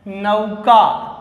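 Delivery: नौका drawn out slowly, each sound clear; slow pronunciation demo. Shown as a demonstration. Teacher showing students how to say नौका, slow and clear. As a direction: say नौका very slowly so the class can copy. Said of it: "उच्चारणम कुरुत".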